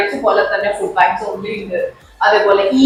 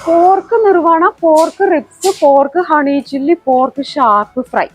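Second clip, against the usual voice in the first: excited menu listing; 4 semitones higher, slower than usual. Real, not acted. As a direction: reel off the dishes with energy.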